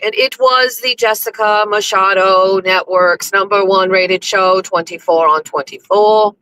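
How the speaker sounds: hammed-up proclamation with stretched-out words; big theatrical storyteller-announcer voice; grand show announcer. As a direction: announce it like a royal herald.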